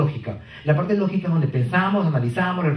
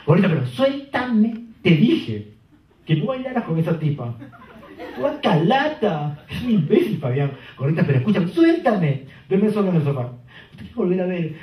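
put-on angry girlfriend; 2 semitones higher than usual. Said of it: "Entra ella así".

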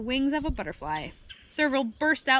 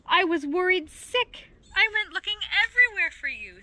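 higher, fretful motherly scolding; worried mother; 7 semitones higher, 3 dB louder than usual. A narrator's reading. Mama Hyena to the daughter she searched for, worried. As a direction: pour out a mother's worry, pitched up.

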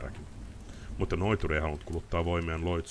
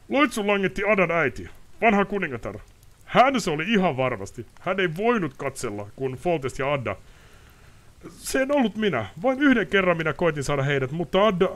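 bitter confession; 13 semitones higher, 9 dB louder than usual. Acted. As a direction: pour out a guilty secret. Ostrid blaming the queen.

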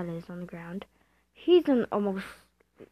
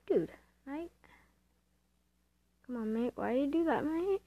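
mock Australian accent; 5 semitones higher, 5 dB quieter than usual. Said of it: "I'm not offending anyone by that accent".

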